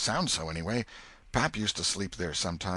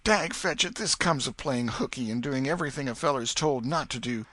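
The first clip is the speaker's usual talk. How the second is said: much higher, louder frantic repentance; boy sure he is doomed, higher and louder; despairing boy; 7 semitones higher, 4 dB louder than usual. Acted. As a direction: wail about being a goner.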